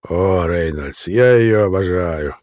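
slow, savouring, lingering on each word; slow relish. Acted. Rollo to captive Mel, slow and relishing. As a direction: draw it out like a man who loves his work.

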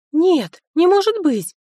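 high, loud dismayed moan. A narrator's reading. Liria moans at the news Sofia may be expelled, high and loud. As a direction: wail in disbelief. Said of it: "застонала подружка".

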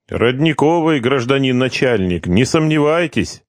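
high, eager servile reply; fawning prisoner. Acted. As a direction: reassure the boss obsequiously. Prisoner fawns to guard.

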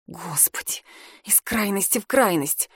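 breathy whispered aside to herself; barely voiced inner whisper. A narrator's reading. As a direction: hush it, as a private thought.

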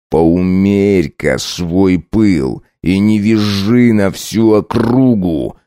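very slow, menacing husband; hissed warning. Acted. Husband hisses at his shrieking wife. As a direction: press each word like a threat. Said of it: "прошипел Блэр".

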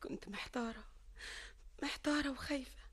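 soft, fading whisper of fear; quietly hurt. Acted. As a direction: let it drop to a hurt whisper. She recalls her confusion and fear.

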